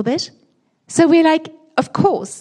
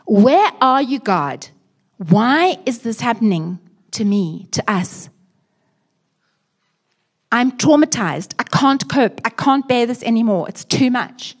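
panicked prayer; 2 semitones higher, 4 dB louder than usual. Retold or imitated. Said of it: "we sometimes say".

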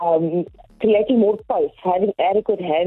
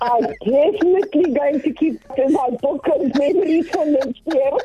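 laughing; 7 semitones higher than usual. Real, not acted. Joining in joke amid laughter.

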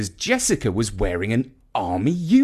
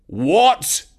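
sharp shocked high question; jolted out of his calm; exclaiming; 6 semitones higher, 5 dB louder than usual. Acted. Jeff hearing the medals are missing, shocked exclaim. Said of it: "exclaimed Jeff".

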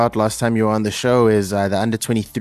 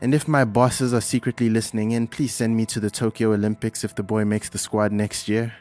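pilot announcement. Acted. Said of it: "this is your Captain Slu Paho speaking".

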